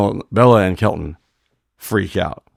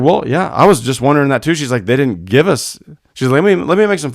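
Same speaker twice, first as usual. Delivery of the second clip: mimicking the award lady; 6 semitones higher, 5 dB louder than usual. Award lady retold, higher voice.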